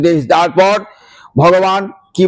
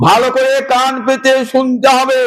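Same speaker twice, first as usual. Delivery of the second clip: emphatic call; 5 semitones higher than usual. Acted. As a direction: call out to the crowd to listen. Urging Arjuna to listen closely.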